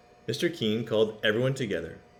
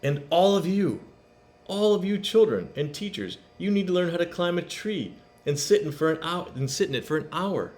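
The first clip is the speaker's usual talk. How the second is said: announcing; 7 semitones higher than usual. A narrator's reading. Principal announces new rule.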